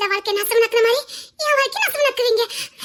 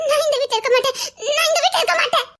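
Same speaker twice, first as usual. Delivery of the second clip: sobbing refusal; 3 semitones higher, faster than usual. Acted. Wife refusing to stay in the house, crying. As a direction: break down as you insist you will leave.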